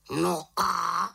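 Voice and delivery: lightly voiced raven. A narrator's reading. Raven shrugging at the witch, lightly voiced. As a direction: ask so what as the bird.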